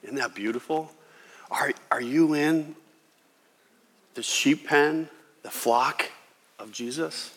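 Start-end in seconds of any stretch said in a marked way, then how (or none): 1.5-7.3 whispered question. Real, not acted. Preacher asks listeners personally.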